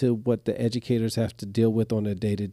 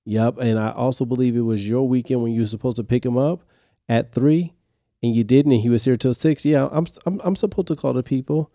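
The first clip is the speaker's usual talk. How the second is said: pointed callout; 4 dB louder than usual. Retold or imitated. Retorts to dad.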